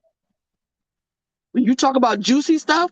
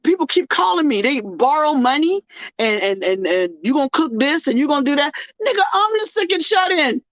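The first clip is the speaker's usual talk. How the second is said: exasperated rant; 3 semitones higher than usual. Retold or imitated. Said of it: "I say".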